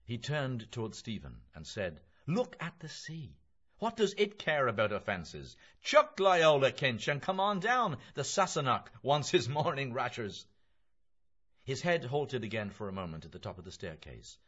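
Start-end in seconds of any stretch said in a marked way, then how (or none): 2.3-10.5 loud, high, jovial urging; raised, animated character voice; hearty Mulligan. Acted. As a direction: chivvy a friend along loudly. Mulligan's part in dialogue.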